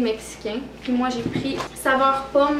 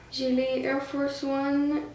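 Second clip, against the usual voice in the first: excited; 3 semitones higher, 3 dB louder, slower than usual. Real, not acted. Excited showing new shoes.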